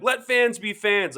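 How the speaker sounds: imitated mom yelling. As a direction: mildly imitate a mom telling people off. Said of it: "yelling at people".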